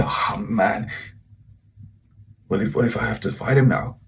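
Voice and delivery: hushed, worried self-talk; stressed inner thought. Retold or imitated. Student worrying to himself after the clash, hushed and stressed. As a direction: replay an anxious thought under your breath. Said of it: "I was really stressed because of it".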